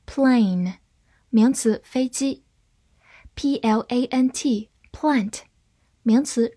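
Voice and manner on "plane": "plane" with A as in its letter name; long A. Shown as a demonstration. Teacher contrasts similar words, "plane" with long A. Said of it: "字母A发它本身的音".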